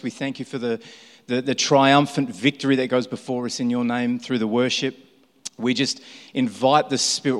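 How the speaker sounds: earnest, steady prayer voice calling on God; opening prayer. Acted.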